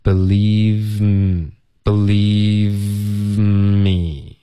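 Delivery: "believe me" very slow, long v melting into a long m; v sliding into m. Shown as a demonstration. Teacher showing how v enters m, exaggerated slow linking. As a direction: draw out "believe me" on one unbroken breath. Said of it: "进入到嗯".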